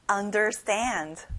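slow Understand with the stress on the final "stand"; Understand, drawn out with a stressed "stand". Shown as a demonstration. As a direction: say Understand slowly, leaning on its last syllable, "stand". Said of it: "stand에 강세를 넣어볼까요".

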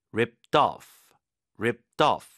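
"Ripped off" with a light t linked into "off"; past tense sound. Shown as a demonstration. Teacher drilling past-tense pronunciation. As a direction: say "Ripped off" with the t sliding into "off". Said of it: "과거형 발음이에요".

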